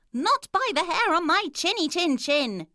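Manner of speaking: high, loud squeaky piglet; defiant little pig. A narrator's reading. Pig shouting refusal at the wolf, high and loud. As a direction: refuse him like a cheeky pig.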